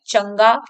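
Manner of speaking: "चंगा" as chang-gaa; nasal ng sound. Shown as a demonstration. Teacher showing ang in pronunciation, ng in "चंगा". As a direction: let the ng hum in "चंगा". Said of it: "अंग का स्वर आ रहा है".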